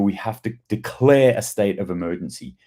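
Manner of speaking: whispered mock announcement; sarcastic hushed whisper of official panic. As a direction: whisper it like a fake secret. Mocking the government line.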